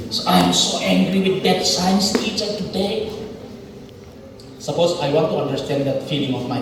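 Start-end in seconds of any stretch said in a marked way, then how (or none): 0.1-3.1 lightly voiced upset friend; mild angry student. Shown as a demonstration. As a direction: complain about the teacher, understated. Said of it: "just for example".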